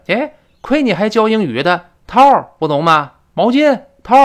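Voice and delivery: retold friend getting worked up, high and loud; mock exasperation. Friend berates English teacher over towel word, mock exasperated. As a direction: scold in high-pitched, hammed-up impatience. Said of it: "那他还急了".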